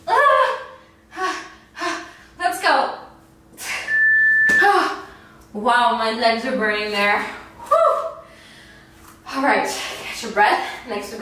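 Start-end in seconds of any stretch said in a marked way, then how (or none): 0.1-5.0 effortful grunting groans; strained groans. Real, not acted. Groaning during squats. 7.7-8.1 laughing whew. Real, not acted. Laughing exhale after set.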